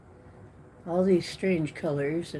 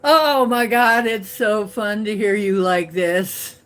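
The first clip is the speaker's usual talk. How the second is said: delighted mock reaction, louder, laughter breaking in; retold laughing friend; 3 semitones higher, 5 dB louder than usual. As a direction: imitate a friend cracking up. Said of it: "she's laughing her ass off".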